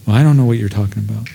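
hurried evasive denial. Acted. Christian denying faith.

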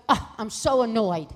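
mildly exasperated mother; lightly acted irritation; retold annoyance. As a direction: let out a groan of mock annoyance. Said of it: "my mother was hysterical".

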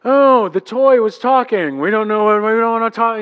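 put-on kids ignoring their father; mock kids. Kids mocking dad.

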